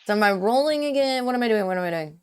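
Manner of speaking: normal talking voice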